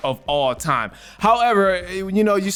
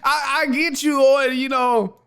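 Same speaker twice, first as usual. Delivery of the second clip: laughing through words; 8 semitones higher than usual. Real, not acted. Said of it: "You crazy for that".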